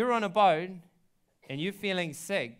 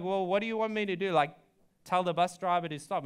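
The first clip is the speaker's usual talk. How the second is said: exasperated; 3 semitones higher, faster than usual. Retold or imitated. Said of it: "I'm like".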